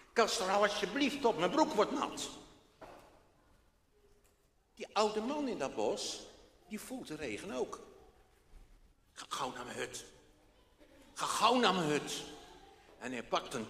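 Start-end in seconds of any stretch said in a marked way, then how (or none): 0.1-2.3 put-on a light boy's plea to the dog; lightly voiced child begging; pleading boy. Boy Freek begging his dog to stop, pleading. 9.1-10.0 quiet and low, to himself; soft. Acted. Old man in the wood muttering to himself, soft. Old man's thought, softer take. 11.1-12.2 louder, pushing himself on; firm self-urging. Acted. Old man urging himself home through the rain, firm.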